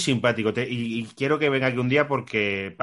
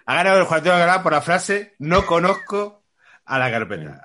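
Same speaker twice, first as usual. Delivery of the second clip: anuncio solemne; 5 semitones higher, 5 dB louder than usual. Acted. Anuncia el ganador con pompa.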